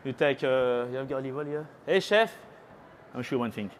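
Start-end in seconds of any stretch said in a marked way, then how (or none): 1.9-2.4 high raised call across the room. Real, not acted. Cooking teacher calls the kitchen chef for garlic oil, calling out. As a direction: call out to get the chef's attention.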